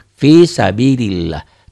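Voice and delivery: very slow recitation, lah of sabilillah thin; thin Allah recited. Shown as a demonstration. Teacher reciting for students, slow and thin. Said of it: "dibacanya juga sama".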